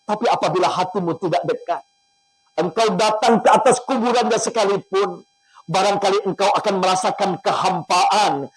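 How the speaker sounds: emotional prayer. Acted. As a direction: plead with God, guiding the listeners. Leads an emotional prayer and guided imagery.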